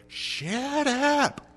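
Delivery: high, exasperated yell out the door; fed-up yell. Acted. Fed-up owner to barking dog in backyard, acted yell. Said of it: "open the back door and say".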